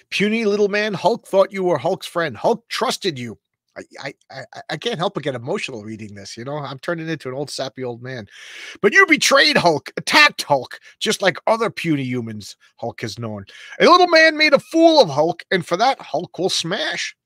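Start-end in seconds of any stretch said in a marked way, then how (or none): 0.1-3.4 higher and louder, a wounded brute; hurt Hulk voice. Acted. Reading Hulk's lines to Wolverine, a hurt, loud brute. Reads Hulk's dialogue aloud. 8.8-17.2 much higher and much louder, a furious brute bellowing; raging Hulk. Acted. Hulk turning on Wolverine, bellowing in rage. Reads Hulk's angry speech.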